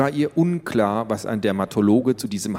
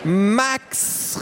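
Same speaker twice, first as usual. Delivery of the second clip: very high drawn-out call; 12 semitones higher than usual. Acted. Little girl calls her brother from the living room, calling. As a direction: call across the house. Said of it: "rief Tiffany".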